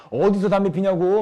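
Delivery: loud, drawn-out mock reprimand; elder's scolding. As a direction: play an old man telling off youngsters. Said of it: "어르신들이 길거리에서 젊은이들 막 책망하고". (어르신이 꾸짖듯 크게)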